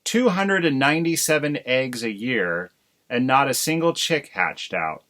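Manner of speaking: burst out. Acted. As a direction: pour out the grievance at the husband. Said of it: "Missus Crow burst out".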